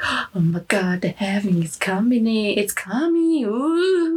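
lightly imitating breathless doomsayers; mock hype.

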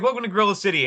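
high, excited mock welcome; hammed-up welcoming announcer; gorilla greeter voice. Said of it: "it's like".

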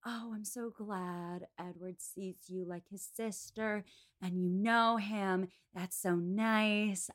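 slow, syrupy mock friendliness, lightly done; a hint of a falsely sweet rival; fake sweet Lucy. Host imitating Lucy Steele gushing to Eleanor, mock sweet and slow. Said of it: "she has been saying".

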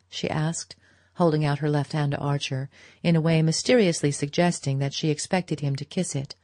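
usual speaking voice

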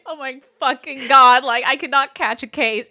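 panicked retold outburst; mock panic. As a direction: replay the freak-out.

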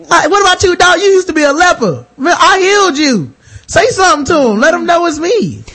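pleading Jesus. Acted. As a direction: call on an old friend to vouch. Jesus begs healed leper to vouch.

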